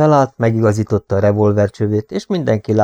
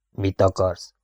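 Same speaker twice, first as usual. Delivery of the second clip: subdued, slightly hoarse question; 3 semitones lower, 5 dB quieter, slower than usual. A narrator's reading. Shaken Rover asks Robin what he wants, subdued and hoarse. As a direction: ask it low-key, a touch husky. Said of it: "kérdezte rekedten Power".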